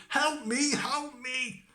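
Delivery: very high little trapped voice; plaintive cry for help. Acted. Tom cries from the cow's stomach, high plaintive wail. Tom calls from inside cow.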